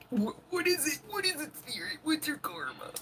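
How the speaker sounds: a hint of a spooky medium; mock mystical voice. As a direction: tease a mock seeker asking the spirit. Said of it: "I've never been the one that's like".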